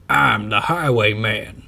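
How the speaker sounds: slow, loud repeated boast; same slow drawn announcement repeated. A narrator's reading. Highwayman repeats his introduction, slow. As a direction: say it again slowly. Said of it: "says the man again".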